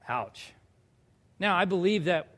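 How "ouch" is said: wincing ouch. Real, not acted. Reacting to the rebuke.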